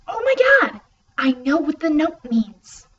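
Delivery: high, loud burst then slow; excited discovery. Acted. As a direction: shout as the answer hits. Sudden realization.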